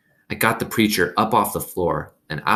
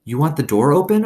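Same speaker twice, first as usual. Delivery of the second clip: put-on young girl voice; 8 semitones higher, 5 dB louder than usual. A narrator's reading. Opal speaks to frightened dog.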